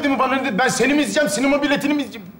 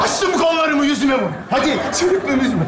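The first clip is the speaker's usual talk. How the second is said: mock-dramatic shout; 3 semitones higher than usual. Man rants melodramatically at cinema.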